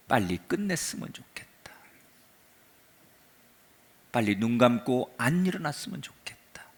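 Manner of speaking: whispered, soft and hopeless; despairing mutter. Acted. Elijah alone under the broom tree, whispering in despair. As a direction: breathe it out like a man who wants to die. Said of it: "혼자 중얼거리는 거예요".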